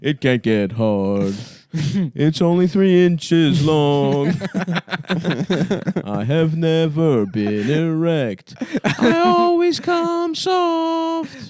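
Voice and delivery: mocking loser voice. Friend mocking the gamer, slow whine. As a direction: drag it out pitifully.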